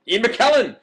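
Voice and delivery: very loud, high, triumphant yell; excited shout. Real, not acted. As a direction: cry out as if you've cracked it. Excited reaction to lookalike comment.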